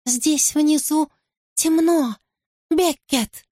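high, slow, eerie voice from another world; a warped copy of her own voice, drawn out; distorted eerie voice. A narrator's reading. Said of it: "но он какой-то искорёженный".

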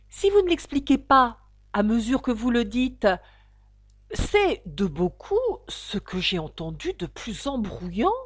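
a lightly voiced exasperated turtle; complaining mock turtle. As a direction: scold her for muddling it.

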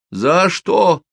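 tearful plea. A narrator's reading. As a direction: cry out the question on the verge of tears. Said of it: "заплакал Кол". (плаксиво, со слезами)

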